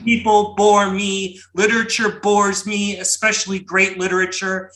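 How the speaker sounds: dramatic booming poetry recitation. Pretend. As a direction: boom it out like a grand old poet. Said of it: "my most outlandish Berryman-esque booming voice".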